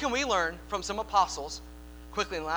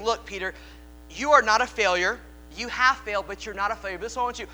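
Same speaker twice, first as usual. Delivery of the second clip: earnest encouragement; 2 semitones higher, 6 dB louder than usual. Acted. Jesus encouraging Peter.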